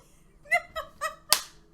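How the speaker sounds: high, loud laughing squeal; relieved laugh. Real, not acted. Relief at finishing.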